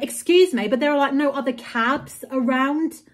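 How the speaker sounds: mock indignant, as if back in the cab; angry retort. To the rude taxi driver, a retold indignant retort. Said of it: "I was just so angry".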